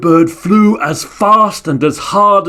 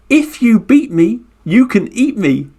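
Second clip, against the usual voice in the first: put-on high turtle dare for the kids to chant; turtle line for children; 8 semitones higher than usual. Shown as a demonstration. Storyteller leading children to chant the turtle's dare, high. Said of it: "can you say it with me?".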